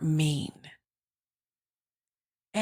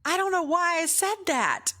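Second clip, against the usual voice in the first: much higher-pitched baffled Nigerian woman; Nigerian driver; 11 semitones higher than usual. Retold or imitated. Nigerian driver puzzled by her own greeting, baffled imitation. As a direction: imitate a bewildered Nigerian lady, voice way up. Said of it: "she was a Nigerian lady, had a heavy accent".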